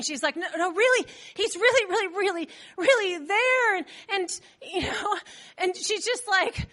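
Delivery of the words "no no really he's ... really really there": earnest repeated pleading, lightly acted; insistent. Rhoda insists Peter is really there, pleading. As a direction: lean on every repeat, stretch the last. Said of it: "Rhoda keeps insisting".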